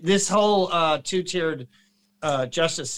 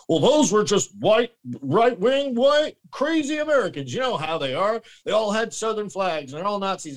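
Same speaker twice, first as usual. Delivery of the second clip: high, mocking voice sneering at white right-wing Americans; mocking the world's view; 6 semitones higher than usual. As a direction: mimic a snooty foreign critic, pitched up. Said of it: "It's like".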